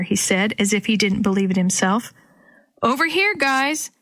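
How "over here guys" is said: calling from behind walls, muffled; high muffled call from far off; muffled distant call. A narrator's reading. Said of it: "Dee Dee's muffled voice off to the side".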